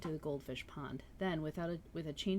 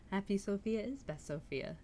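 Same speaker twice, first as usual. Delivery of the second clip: laughing; 4 semitones higher than usual. Real, not acted.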